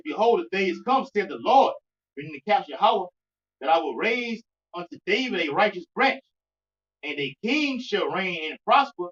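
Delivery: measured, emphatic Bible reading; scripture reading. Real, not acted. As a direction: read the verse out with weight, pausing between phrases. Reads scripture aloud.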